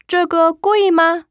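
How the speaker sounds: 这个贵吗 said very slowly and high, tones exaggerated; 这个贵吗 drawn out syllable by syllable; Mandarin model sentence. Shown as a demonstration. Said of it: "이렇게 되겠죠".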